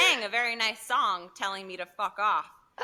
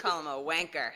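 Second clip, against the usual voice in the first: put-on low, softer British-accented jibe; 6 semitones lower, 5 dB quieter than usual. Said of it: "That was good".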